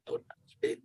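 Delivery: very high, mock-timid squeak, begging not to be noticed; tiny squeaky plea. Kid hiding on jungle gym, high timid squeak. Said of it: "being like".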